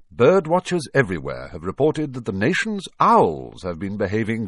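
crisp TV news delivery; newsreader voice. Acted. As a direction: read it like the evening news. Evening news report read out.

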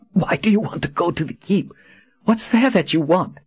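lightly voiced woman asking; female character voice. A narrator's reading. Kahlan questions Jagang, higher voice.

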